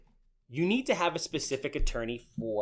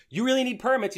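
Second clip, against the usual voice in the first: incredulous; 10 semitones higher, 7 dB louder than usual. Retold or imitated. Incredulous question to a friend.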